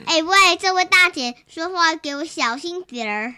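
put-on loud Beijing accent with a rolled erhua ending. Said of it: "你在学什么北京腔？". (北京腔，大声耍狠)

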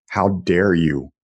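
slow, stern mock-sergeant rebuke; a touch of sergeant force, slowed right down. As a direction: hold each word like a drill sergeant, slowly. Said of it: "some sergeant force".

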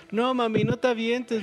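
put-on high-pitched little kid pleading; pleading child. Son begging his mother not to jump, high pleading child. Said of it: "le dice a su hijo".

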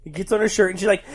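normal talking voice

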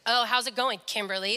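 imitated uncaring greeting, dropping low on the name; feigned interest. Dad's mean friend going through the motions, imitated uncaring. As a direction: ask without caring about the answer. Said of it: "Like, he doesn't care how it".

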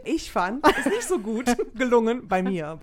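laughing through the words; giggling as she speaks. Real, not acted. Laughing while admitting failure.

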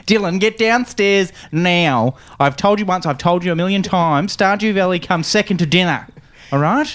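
high, stern mum voice; scolding mum. Pretend. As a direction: tell the kid off.

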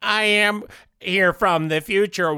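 flat robot monotone. Acted. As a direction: speak like a robot, no feeling. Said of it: "talk to you as a robot".

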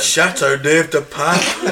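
drawn-out mock French in Del Boy's accent; slow, laughing cockney attempt at French. Joining the joke about bad French, in a slow Del Boy accent.

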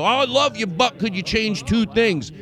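high-pitched fawning complainer; gush, then slip in the complaint; put-on sweet, high voice; mock gushing fan. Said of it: "like, they wanna go".

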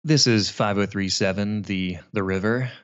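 slow, smooth late-night radio host; sexy radio DJ voice. Pretend. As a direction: purr it like a jazz station DJ. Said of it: "give me your sexiest D J voice".

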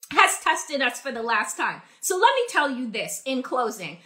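winded, catching breath between words; short of breath after ranting. Real, not acted. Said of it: "because I need to catch my breath".

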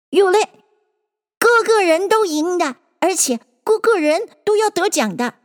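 high-pitched Dodo announcing a verdict; high character voice giving a ruling; pronouncing Dodo. Acted.

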